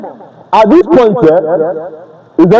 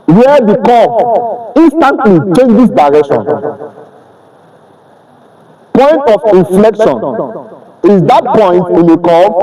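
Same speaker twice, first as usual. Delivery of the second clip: measured teacher dictation with pauses between phrases. Real, not acted. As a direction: dictate it phrase by phrase for note-takers. Dictating a definition for students' notes.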